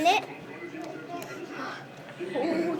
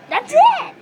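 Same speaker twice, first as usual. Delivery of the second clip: high loud cheer; excited cheer; 11 semitones higher, 8 dB louder than usual. Real, not acted. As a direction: cheer him on. Cheering friend on.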